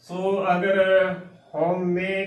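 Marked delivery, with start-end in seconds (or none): 1.5-2.2 ਹਉਮੈ as "hau-me", closed final e; wrong pronunciation. Shown as a demonstration. Teacher warning of a half-wrong form, ਹਉਮੈ ending "me". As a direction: keep hau but end ਹਉਮੈ on a narrow "me". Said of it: "ਤਾਂ ਵੀ ਗਲਤ ਉਚਾਰਨ ਹੈ".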